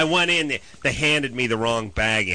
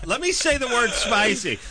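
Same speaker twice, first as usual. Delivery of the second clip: high mocking voice; 11 semitones higher than usual. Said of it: "It's like".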